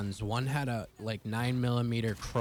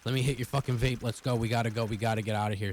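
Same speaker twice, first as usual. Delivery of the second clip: retold screaming; 3 dB louder than usual. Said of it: "I'm screaming at him".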